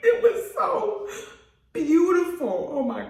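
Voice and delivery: high, drawn-out squeal of praise; swooning, high-pitched awe; excited gushing. Real, not acted. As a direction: let it soar up with delight. Overcome gushing about the film.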